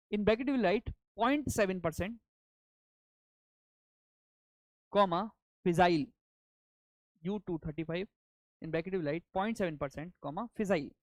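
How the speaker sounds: dictating. Shown as a demonstration. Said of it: "let me dictate now".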